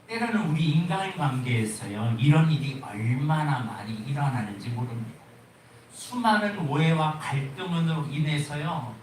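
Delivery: ordinary talk, nothing marked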